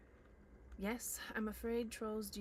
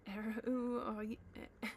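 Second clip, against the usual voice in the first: high squeaky voice, rising to a loud squeal; a talking purse squeaks in alarm, high and loud; squeaking purse; 4 semitones higher, 7 dB louder, slower than usual. A narrator's reading. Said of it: "it squeaked".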